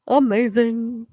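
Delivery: slow, whispered mock amazement; a dry, whispered amazing; sarcastic whisper. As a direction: breathe it out, deadpan and unimpressed. Mock reaction to eight seconds.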